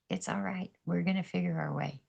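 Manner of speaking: quiet soothing words; soft reassurance. Retold or imitated. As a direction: soothe a grieving friend quietly. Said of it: "I was like".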